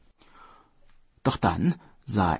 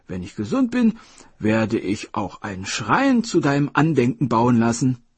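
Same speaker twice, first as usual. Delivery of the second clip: commanding king, higher and louder; Dragon King voice; 5 semitones higher, 5 dB louder than usual. Acted. Dragon King telling the hare he wants his liver, commanding. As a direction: lay out the plan with royal authority. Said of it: "meinte der Drachenkönig".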